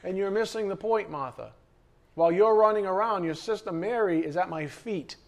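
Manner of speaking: gently but firmly set her straight; the Lord correcting. Pretend. Preacher voicing the Lord correcting busy Martha. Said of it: "and the Lord says".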